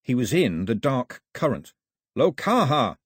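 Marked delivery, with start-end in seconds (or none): 2.2-3.0 a called-out name, a bit louder; shouted name. A narrator's reading. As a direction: Mao shouting for Lokaha in the dark water. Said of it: "he shouted".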